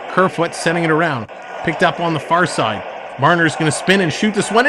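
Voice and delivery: quick, lively hockey call; play-by-play. Acted. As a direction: call the action as it happens.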